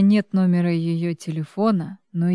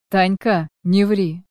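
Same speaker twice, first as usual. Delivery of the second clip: a touch of irritation, slightly raised; mild anger. A narrator's reading. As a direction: tell her off with mild annoyance. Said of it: "разозлился он".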